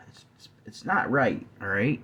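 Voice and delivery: words stretched by a yawn. Real, not acted. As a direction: talk through a yawn. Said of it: "this yawning's getting on my nerves".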